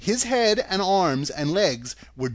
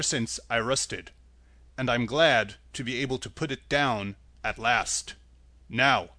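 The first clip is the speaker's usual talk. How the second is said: Tin Woodman voice; 3 semitones lower than usual. Acted.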